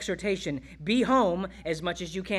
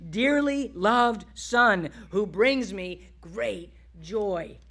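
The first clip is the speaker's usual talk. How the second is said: slow, weighty declaration, lightly voiced; voice of God the Father; 3 dB louder, much slower than usual. The Father speaking of his dearly loved Son, slow proclamation. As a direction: proclaim it slowly, drawing out each phrase. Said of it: "we hear the voice again".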